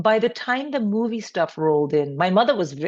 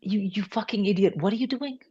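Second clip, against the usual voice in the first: exasperated sister; 4 semitones higher, 4 dB quieter than usual. Retold or imitated. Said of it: "her reaction to most things I did".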